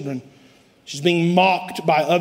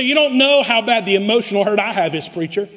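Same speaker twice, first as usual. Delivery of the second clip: raised, aggrieved voice of a wounded churchgoer, building as the list goes on; hurt churchgoer; 6 semitones higher than usual. Retold or imitated. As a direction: plead your hurt to the preacher. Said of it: "You say".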